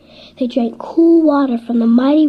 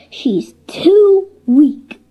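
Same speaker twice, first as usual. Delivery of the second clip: grumbling bull; 3 semitones higher, 6 dB louder, much slower than usual. Acted. Resentful bulls grumbling in private.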